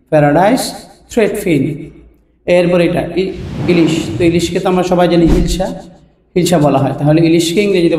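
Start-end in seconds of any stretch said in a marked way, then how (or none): 0.1-1.6 প্যারাডাইস and থ্রেডফিন split with a clear pause; slow repeat. Shown as a demonstration. Teacher repeating the English name slowly, word by word. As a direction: spell it out by ear for learners.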